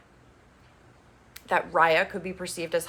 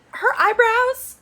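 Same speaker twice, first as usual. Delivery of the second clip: judgy pause; 7 dB louder, slower than usual. Real, not acted. About to judge eyebrows.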